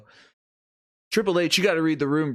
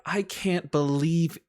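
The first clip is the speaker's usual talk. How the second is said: mock disbelief; 2 semitones higher than usual. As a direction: feign being appalled, slightly hammed-up. Acts out her feigned public outrage.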